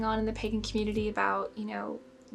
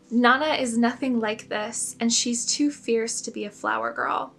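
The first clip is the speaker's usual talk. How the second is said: a touch louder, mock snarky retort; lightly sassy comeback, arms crossed; half-hearted snark at a god; 3 dB louder than usual. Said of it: "in a very snarky voice with my arms crossed".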